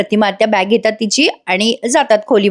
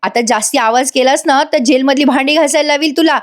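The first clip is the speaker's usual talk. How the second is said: mild scolding; 4 semitones higher than usual. Acted. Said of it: "ती बाई ओरडून म्हणते".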